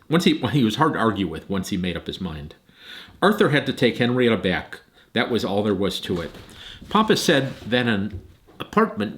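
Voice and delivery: put-on reading a children's book aloud; story narration. A narrator's reading. Grandparent reading to grandchildren over video, storytelling voice. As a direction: read the chapter to the grandkids.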